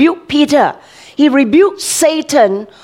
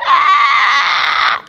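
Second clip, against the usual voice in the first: mock child's cry; 3 semitones higher than usual. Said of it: "he was crying".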